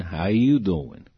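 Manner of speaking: slow, drawn-out "How you doing?"; knowing question. Retold or imitated. Director checking on injured actor, slow and knowing. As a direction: stretch the question out pointedly.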